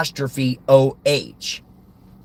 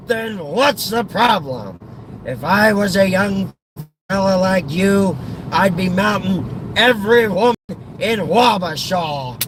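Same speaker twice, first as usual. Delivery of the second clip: exasperated comic urging, slightly raised; pushy old father; 3 semitones higher than usual. Acted. Father urging his son on about women, exasperated comic urging. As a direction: egg on the reluctant son.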